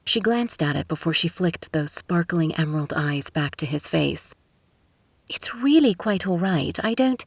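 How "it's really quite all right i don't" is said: put-on British accent, polite refusal; crisp British accent. A narrator's reading. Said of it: "in a crisp British accent".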